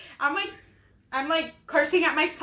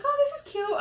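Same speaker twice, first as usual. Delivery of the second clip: mock delighted; 13 semitones higher than usual. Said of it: "you're like".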